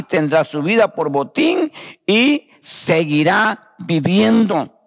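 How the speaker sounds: slow, measured Bible reading with drawn-out phrase endings; scripture reading. Real, not acted. Preacher reading Jeremiah's prophecy to the congregation, slow scripture reading. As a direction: read the verses out slowly and solemnly to the congregation. Reads the scripture passage aloud.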